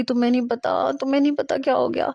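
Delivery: lightly voiced sobbing words; crying. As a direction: Noor weeping to her friends, mildly tearful. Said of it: "وہ پھوٹ پھوٹ کے رونے لگی".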